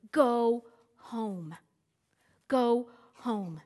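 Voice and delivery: "Go home." repeated as firm orders, stress on "Go"; authoritative command. Shown as a demonstration. Preacher repeats Jesus' command, firm falling "Go home.". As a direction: say "Go home." twice, with no other option. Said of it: "It was that kind of a word".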